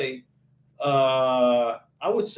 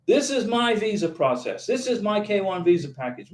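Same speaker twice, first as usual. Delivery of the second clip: mock self-centred YouTuber. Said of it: "Some YouTubers have put a YouTube channel together all about them".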